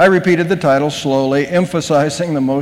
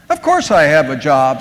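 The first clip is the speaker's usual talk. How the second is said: snapped; 3 semitones lower than usual. Acted. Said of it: "snapped Emily".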